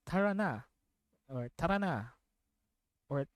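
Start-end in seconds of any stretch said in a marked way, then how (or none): 0.1-0.6 "Tara na" with an American-style r, higher pitch; non-native Tagalog accent. Retold or imitated. Streamer quoting a Valorant character's line, non-native Tagalog accent. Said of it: "sounds like a Filipino who doesn't speak Tagalog". 1.6-2.0 "Tara na" with a lightly tapped Tagalog r; imitated Tagalog line. Streamer trying another version of the character's line, tapped Tagalog accent. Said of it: "she says lines like".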